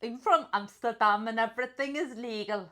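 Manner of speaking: second attempt at Dutch; Dutch accent. Player retrying the line, put-on Dutch accent.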